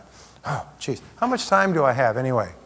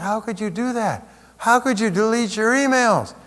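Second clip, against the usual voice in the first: higher, disbelieving question; incredulous; 9 semitones higher than usual. Retold or imitated. People asking the reporter about deleted emails, incredulous. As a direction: ask it aghast, voice pitched up. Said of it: "And people said".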